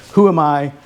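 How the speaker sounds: ordinary delivery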